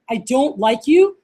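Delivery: slow, deliberate serious delivery. Shown as a demonstration. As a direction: say it slowly and mean it. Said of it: "Like, serious, like, I want".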